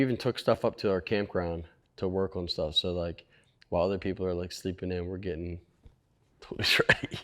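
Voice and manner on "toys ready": whispered. Real, not acted. Whispered laughing aside.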